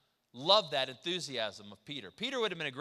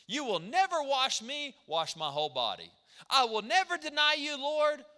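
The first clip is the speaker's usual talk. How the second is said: higher and louder, swearing big promises; mock Peter's overblown vows, high and loud; boastful Peter; 8 semitones higher, 5 dB louder than usual. Mocking Peter's flip-flopping boasts.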